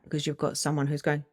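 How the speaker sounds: normal talking voice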